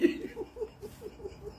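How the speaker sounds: high breathy laugh trailing off; cracking up at her mother; real laugh. Real, not acted.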